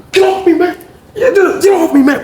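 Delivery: high-pitched retold yell; acted struggling protest. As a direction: protest while being held, voice jumping up. Sean struggles in fight.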